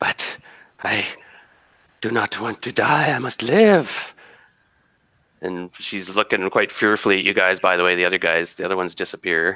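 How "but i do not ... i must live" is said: slow, hissed, drawn-out words. Storyteller voicing a near-death creature to the players, with a bit of a hiss. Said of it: "gives a bit of a hiss".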